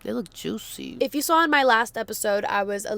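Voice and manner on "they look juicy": swollen lips; talking through puffy freshly filled lips; fresh lip filler. Real, not acted. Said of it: "my lips are so swollen".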